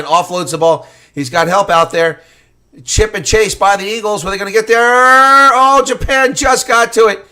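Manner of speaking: high, loud commentary at full pitch; excited play-by-play. Real, not acted. Commentator calling a chip and chase, loudly excited. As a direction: build to a shouted peak, then ease slightly.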